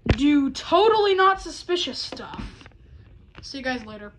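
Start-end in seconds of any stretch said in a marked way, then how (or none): 0.1-2.4 higher, louder, fake innocent tone; mock innocent. Impostor teasing the crew about his plans, mock innocence. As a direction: sell an obvious lie cheekily. Announcing obviously suspicious plan.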